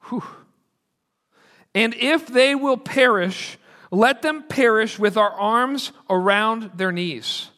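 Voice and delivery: very slow, deliberate quote reading; slow, weighty reading. Shown as a demonstration. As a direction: let each phrase land slowly and heavily. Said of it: "Let me read this slowly".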